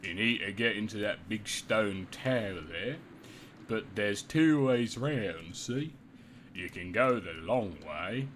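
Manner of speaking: lightly voiced old-timer telling town history; a hint of a village old-timer; old townsperson. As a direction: recount local lore as a long-time resident. Old townsperson gives directions.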